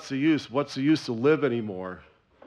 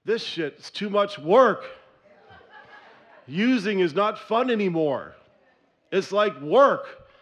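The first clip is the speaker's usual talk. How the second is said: weary disgust; 5 semitones higher, slower than usual. Retold or imitated. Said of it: "the other thing I'm thinking".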